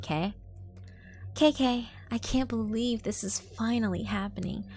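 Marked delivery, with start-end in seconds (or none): 1.3-4.6 put-on bright higher girlish reply; perky little sister voice; chirpy sister.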